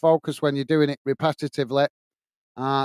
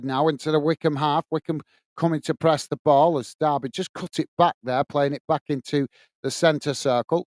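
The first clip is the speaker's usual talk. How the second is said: measured running commentary; live play-by-play. Real, not acted. Commentator following Derby's build-up for viewers, measured play-by-play. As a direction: follow each pass steadily as play develops.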